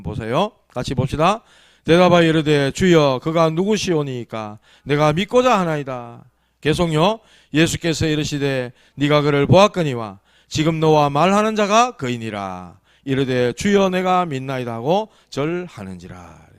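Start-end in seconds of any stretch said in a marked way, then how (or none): 1.8-6.2 slow, solemn Bible reading; formal reading with drawn-out endings; scripture reading. Acted. Reads scripture aloud to congregation. 7.5-16.5 slow, solemn Bible reading; formal reading with drawn-out endings; scripture reading. Acted. Reads scripture aloud to congregation.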